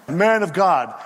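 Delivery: lightly taunting call; mocking. Soldiers summoning Elijah, lightly mocking. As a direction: call him by his title with a touch of mockery. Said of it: "they say it in a kind of a mocking fashion".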